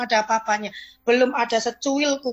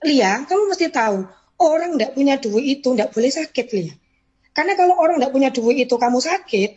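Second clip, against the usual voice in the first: omelan keras dan tegas; ceramah keras bos; 2 semitones higher, 5 dB louder than usual. Retold or imitated. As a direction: paksa dia berangkat kerja. Leader menceramahi bawahan dengan keras. (bos mengomeli bawahan yang sakit dengan keras)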